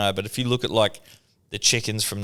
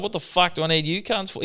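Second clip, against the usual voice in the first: mock angry dad; 9 semitones higher than usual. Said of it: "He's like".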